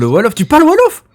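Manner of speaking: taken aback, pitch lifting into a question; surprised. Real, not acted. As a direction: react with real surprise, voice jumping up. Astonished on learning guest speaks Wolof.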